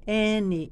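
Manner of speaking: any with a clear short vowel. Shown as a demonstration. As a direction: pronounce Any as in anything. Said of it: "hindi any".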